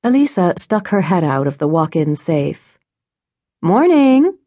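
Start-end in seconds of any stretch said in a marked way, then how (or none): 3.6-4.4 bright, rising hello, higher and louder; bright greeting. A narrator's reading. Shop owner greets her employee brightly. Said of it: "she returned brightly".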